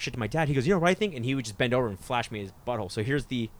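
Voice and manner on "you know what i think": higher-pitched mock dad voice; dad's retort, pitched up; imitating dad. Son retells dad answering trash talk, imitating dad.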